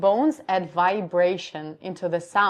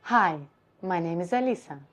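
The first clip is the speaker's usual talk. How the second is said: low larynx voice; faster than usual. Shown as a demonstration. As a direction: drop the larynx and let the name settle down. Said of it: "if I would do lower position of my larynx".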